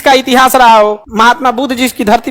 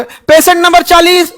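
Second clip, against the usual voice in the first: slower, higher roll-call of "patient number चालीस"; calling out patient number; 5 semitones higher than usual. Shown as a demonstration. Hospital staff calling a patient by number, drawn-out call. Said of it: "ऐसे बोलोगे".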